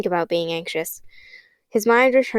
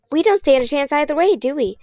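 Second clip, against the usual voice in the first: defiant; 6 semitones higher than usual. Acted. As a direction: throw the doubt right back. Kate's bleak retort.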